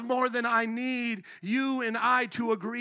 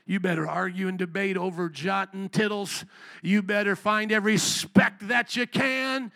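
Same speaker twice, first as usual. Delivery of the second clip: put-on rising tirade at the old preacher; mock self-rebuke; 3 semitones higher, 6 dB louder than usual. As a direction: start scolding, then escalate to hammed-up yelling. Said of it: "I even thought to myself".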